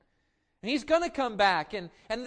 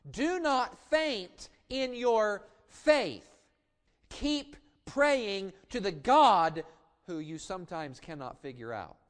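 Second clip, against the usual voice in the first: reassuring Jesus; 4 dB louder, slower than usual. Acted. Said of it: "Jesus comes in Luke eighteen and says".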